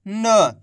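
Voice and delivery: न as a short half sound, without the full "aa"; half-pronounced letter. Shown as a demonstration. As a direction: say न alone as a word-final consonant. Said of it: "कैसे कर रहे हैं अपन ना का उच्चारण". (न का आधा उच्चारण)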